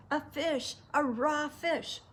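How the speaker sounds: high mock scream, no real volume; disgusted scream. A narrator's reading. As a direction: draw out the horror at a nasty bite. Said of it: "she screamed".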